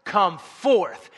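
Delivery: loud, commanding call, drawn out at first; preacher's imitated yell. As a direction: call it out like summoning someone from a tomb. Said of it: "he yells".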